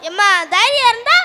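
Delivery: indignant father vowing payback; angry. Acted. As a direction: rage on your child's behalf, speeding up. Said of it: "ஏங்க இவ்வளோ கோவப்படுறீங்க?".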